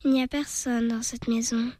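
small, distant voice from beyond; small otherworldly voice. Acted. Fairy child answers the puppet, small and ghostly. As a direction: sound like a ghost child at a window. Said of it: "d'une petite voix, semblant venir de l'autre monde".

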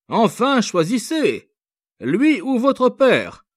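high and loud, slowing on the choice; harsh officer. A narrator's reading. Officer to the young girl, demanding a choice, harsh. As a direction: force her to choose.

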